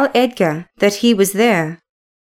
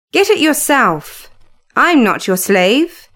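plain reading voice

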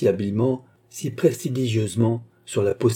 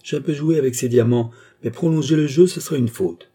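rising agitation; 5 semitones higher, 4 dB louder than usual. Acted. The queen insisting to the jewellers, building urgency. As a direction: voice climbing higher and louder as she insists.

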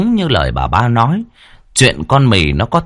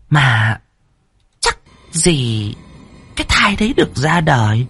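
sly, calm scheming voice; hint at the plan, sly; scheming first wife; 4 semitones higher than usual. A narrator's reading. First wife slyly calming the third wife, scheming.

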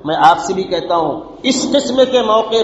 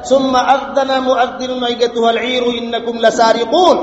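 Quranic recitation; 2 semitones higher, slower than usual. Acted. Quran verse recited slowly.

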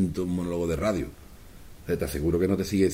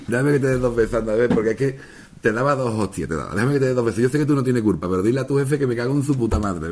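louder, cheeky and playful; mock friendly taxpayer; 3 semitones higher, 4 dB louder than usual. Teasing the tax official with playful loud cheek. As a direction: kiss the taxman while cursing his boss. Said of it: "llega a Hacienda y dile".

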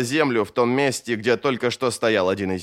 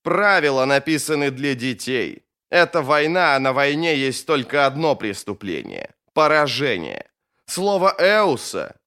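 lightly voiced wizard brushing rules aside; emphatic, measured contempt; scornful mage. Bayaz scorns the law.

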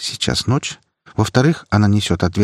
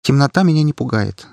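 решительно; 8 semitones higher than usual. A narrator's reading. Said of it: "решительно отрезала девушка".

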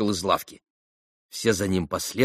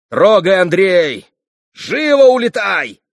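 громкий приказ ямщику; 10 semitones higher, 9 dB louder, slower than usual. A narrator's reading. Митя кричит ямщику трогать.

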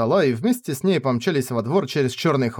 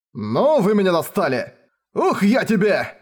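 mock battle cry; 6 semitones higher than usual. Rayner lunges at Ferris.

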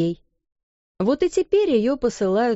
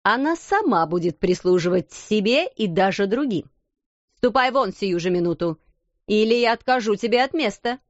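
angry threat. Acted. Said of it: "вскричала она".

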